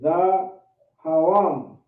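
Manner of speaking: DAHAWAM very slow, broken into drawn-out syllables; slow demonstration. Shown as a demonstration. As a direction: stretch out "Dahawam" with a pause after the first syllable. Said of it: "I'm just saying it a little faster".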